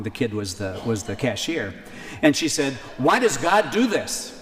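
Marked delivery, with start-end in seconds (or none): 3.0-4.3 high, pained plea of a grieving mother; anguished question. Retold or imitated. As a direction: cry it out at God, slow and higher.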